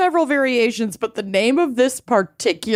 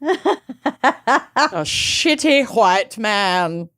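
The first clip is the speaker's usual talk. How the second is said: laughing; much slower than usual. Real, not acted. Laughing through the line.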